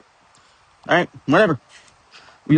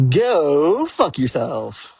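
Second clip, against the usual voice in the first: slow defiant retort; much slower than usual. Retold or imitated. Storming off from the table.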